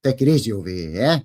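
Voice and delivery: lightly voiced scolding censor, rising loud at the end; mock YouTube warning. YouTube scolding the vlogger over naughty words, mock stern warning. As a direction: pretend to be YouTube telling him to calm down. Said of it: "YouTube is probably saying".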